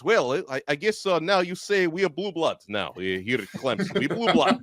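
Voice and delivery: a light mock Russian accent; lightly imitating a Russian accent; Victor Locken Russian accent. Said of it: "can I take this opportunity to do my Russian accent?".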